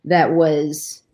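halting, holding back real emotion; sigh, then push on through long pauses; getting emotional. Real, not acted. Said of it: "I'm getting all emotional".

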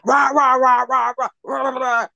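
mocking gibberish rant. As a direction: parody her jumping straight into a rant. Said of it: "she was immediate".

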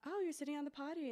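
parent voice. Retold or imitated.

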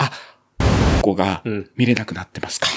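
polite, serious call-center tone; a hint of a dead-serious operator; customer service voice. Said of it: "その真面目トーンで言うんですね".

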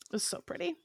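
high breath of a whisper; hushed awe. Real, not acted. Gushing to co-hosts about the costume, awed whisper. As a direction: whisper it, swooning over it.

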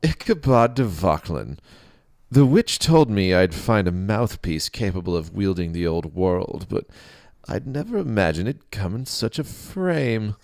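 high, loud jovial king; a lightly voiced laughing king; laughing booming king. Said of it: "But the king laughed".

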